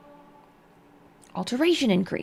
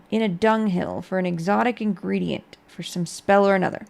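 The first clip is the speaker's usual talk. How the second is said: measured storybook narration; story narration. Acted. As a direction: read it like a tale. Reads skill book aloud.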